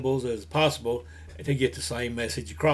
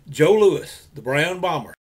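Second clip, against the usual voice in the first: loud booming fight introduction; ring announcer; 5 dB louder, slower than usual. Acted. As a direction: call it out like a boxing announcer.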